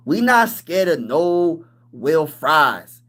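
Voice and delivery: slow mock imitation of a rival fan. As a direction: drawl it like the other guy, lightly. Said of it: "say it in his voice".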